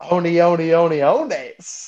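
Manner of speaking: a light take on Kevin James stammering "oni, oni, oni, ones", slowed at the end; Kevin James impression. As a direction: stretch out "ones" like a goofy sitcom dad. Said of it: "where he's like, Kevin James".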